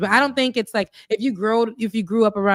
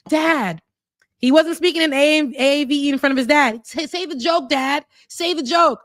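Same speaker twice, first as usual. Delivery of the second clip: put-on pleading kid; 7 semitones higher, 4 dB louder than usual. Kid begging his dad, retold.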